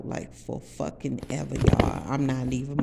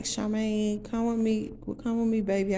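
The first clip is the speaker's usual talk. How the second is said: coaxing Tony; 5 semitones higher than usual. Retold or imitated. Tony coaxing her to come.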